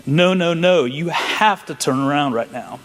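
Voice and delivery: retold urgent command; insistent command. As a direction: urgently order someone to turn back, easing off at the end. Retelling an urgent divine command.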